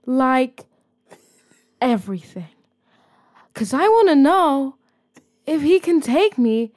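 slow, overwrought confession; lightly hammed-up reality star; dramatic telenovela voice. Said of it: "Why so dramatic?".

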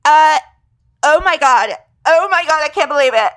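high, loud gushing disbelief; mock over-the-top amazement. American family gushing over puppy, loud disbelief.

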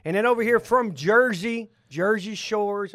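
Jersey Shores drawn out slowly; savoring the words. Real, not acted. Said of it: "I like saying all that".

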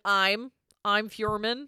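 slow, deliberate name reveal; slow dramatic intro. Shown as a demonstration. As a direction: draw out the name slowly. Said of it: "Normally you do the".

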